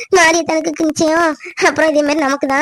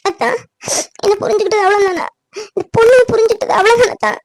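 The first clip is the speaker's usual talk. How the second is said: higher, breaking with sobs; tearful pleading; 3 semitones higher than usual. Acted. Woman begging her doubting cousin to trust her, sobbing. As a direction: beg through tears to be understood.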